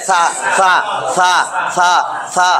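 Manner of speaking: সা said softly with the tongue tip on the teeth; soft Arabic seen. Shown as a demonstration. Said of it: "এটার উচ্চারণ নরম করে হবে।".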